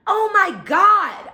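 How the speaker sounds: high, loud, drawn-out retold outcry; panicked cry. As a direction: re-enact crying out during a struggle. Acts her cry while being robbed.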